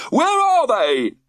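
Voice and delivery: high, loud, slow eager question; excited question. A narrator's reading. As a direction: eagerly demand to see. George eager about fish.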